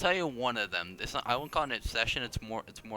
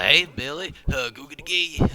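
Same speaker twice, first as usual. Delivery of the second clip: louder, higher mock-parent voice; hammed-up parent attempting slang; parent trying to be cool; 4 semitones higher, 9 dB louder than usual. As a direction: imitate an uncool parent calling out to a kid. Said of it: "a parent would say to try to be cool".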